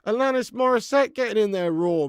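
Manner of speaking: loud, high-pitched disbelief; real astonishment. Real, not acted. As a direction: exclaim it at full volume, stunned. Astonished at who is singing anthem.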